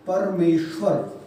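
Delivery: परमेश्वर slow, the श clearly spelt; slow dictation. Shown as a demonstration. Teacher spelling परमेश्वर slowly for students. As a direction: draw out परमेश्वर syllable by syllable. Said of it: "दुग्गा शय आता है".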